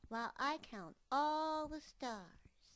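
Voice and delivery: put-on high, slow childlike bear cub; a small cub dreaming aloud; little cub voice. Cub Mopkin counting stars.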